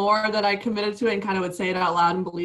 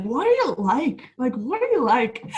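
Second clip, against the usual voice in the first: higher imitated Northern Irish lilt; Keelan's northern accent; 5 semitones higher, 3 dB louder than usual. Imitating her boyfriend teasing her, higher Northern Irish accent. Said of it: "He'd be like".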